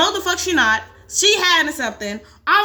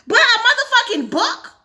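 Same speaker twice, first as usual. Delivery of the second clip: loud and high, disbelieving question; can't believe what they just saw; incredulous; 9 semitones higher, 5 dB louder than usual. Real, not acted. Gamer stunned the book was burned, loud disbelief.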